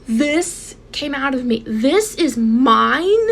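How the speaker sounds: slow, drawn-out amazed question; stunned disbelief. Retold or imitated. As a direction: stretch it out, unable to believe the baby is hers. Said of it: "and I'm like".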